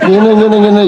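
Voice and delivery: mock loud reading drill; loud read-aloud; reading aloud loudly. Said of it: "dibaca keras-keras".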